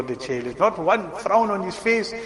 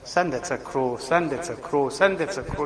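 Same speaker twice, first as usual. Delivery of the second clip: softer, gentle and patient; with more love; 4 semitones lower, 5 dB quieter than usual. Retold or imitated. Father answering his small son, soft and loving. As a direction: tell the child tenderly each time. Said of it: "told you with more love and more muhabbat".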